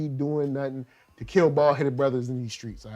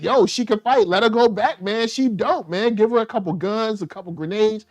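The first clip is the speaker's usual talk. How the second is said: tag hyped endorsement; 5 semitones higher, 3 dB louder than usual. Pretend. Imagined excited endorsement of her.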